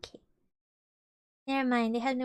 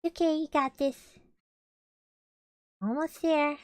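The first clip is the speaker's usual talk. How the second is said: encouraging; 4 semitones higher, 4 dB louder than usual. Real, not acted. Encouraging a friend.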